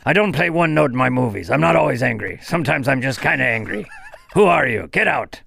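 lightly voiced deadpan tough guy; Liam Neeson impression. Liam Neeson rambling at the bar, lightly voiced. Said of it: "is that Liam Neeson".

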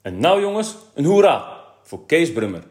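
high, loud rallying call; headmaster's ringing announcement. A narrator's reading. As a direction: rouse the class to cheer. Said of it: "en riep".

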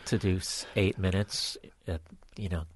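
quiet musing, fading to a whisper; reluctant self-talk. Acted. Comic weighing a gig by private jet, quiet reluctant self-talk. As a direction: talk yourself into it under your breath. Acts out reluctant inner debate.

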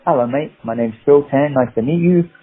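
lightly done Cockney hello; Cockney accent. Acted. Actor greeting casting people at an audition, Cockney accent. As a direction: introduce yourself in a chummy Cockney accent. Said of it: "a Cockney accent".

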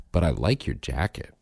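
lightly voiced offhand child; casual imitated kid. Dad quoting his son's consolation compliment, casual. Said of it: "he said it real casual".

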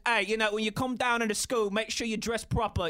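mock-British, dropping the r; playful British impression; British accent. Shown as a demonstration. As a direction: imitate a Brit giving advice. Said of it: "such a good British word".

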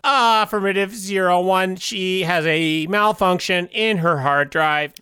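robot voice. Acted. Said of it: "Robot Tim".

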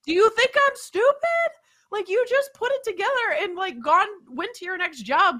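high-pitched, indignant rant; frustrated. Retold or imitated. Customer venting at a careless handyman, high and frustrated. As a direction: scold him in exasperated disbelief. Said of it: "I'm just frustrated".

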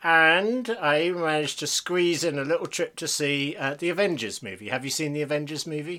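talking around a pen in the mouth; pen in teeth. Real, not acted. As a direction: speak with a pen between your teeth. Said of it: "podcasting always so much better when you do it with a pen in your mouth".

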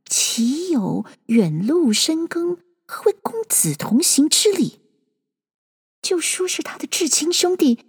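put-on a young woman puzzling it over silently; puzzled inner voice. A narrator's reading. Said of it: "心里诧异道". (心里诧异地自言自语)

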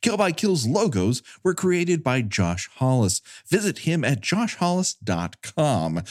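brisk, even credits read; fast legal disclaimer. Acted. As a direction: rattle off the disclaimer quickly. Reads end credits disclaimer.

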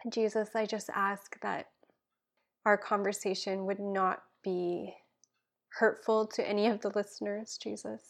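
earnest spoken prayer, dropping to a hush at times; heartfelt prayer. Acted. Guest praying for listeners, earnest prayer voice. Prays aloud on podcast.

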